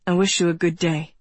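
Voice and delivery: low, quick polite farewell; polite stranger. A narrator's reading. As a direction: drop the pitch and take brisk leave. Stranger takes leave of her.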